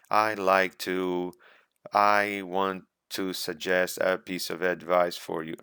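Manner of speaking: slow, halting, broken into chunks; chopping. Shown as a demonstration. Exam candidate giving advice, speaking in choppy halting bits. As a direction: stop and start between the words like a nervous student. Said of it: "No, you are chopping".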